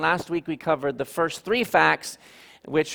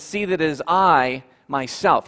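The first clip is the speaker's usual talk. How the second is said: I held long and louder; stress on I; 4 dB louder than usual. Shown as a demonstration. Pastor quoting Jesus, stress on I. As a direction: press down on the word I. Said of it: "Do you see the emphasis there".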